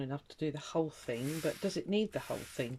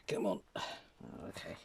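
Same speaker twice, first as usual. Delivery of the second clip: exasperated; 6 dB louder, faster than usual. Real, not acted. Paper ripped, laughing at it.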